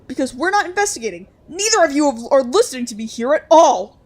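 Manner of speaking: firm refusal. Acted. Allison refusing loudly.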